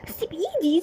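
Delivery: high, loud cry to let go; girl shrieking at the man dragging her; panicked struggle. Acted. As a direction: fight free in a panic.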